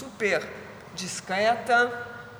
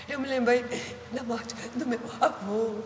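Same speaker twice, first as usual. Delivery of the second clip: put-on higher, tearful child voice; crying little boy; 3 semitones higher, 3 dB quieter than usual. Little boy telling his carer why he cries, tearful child voice. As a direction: voice the sobbing boy lightly. Small boy's words retold by carer.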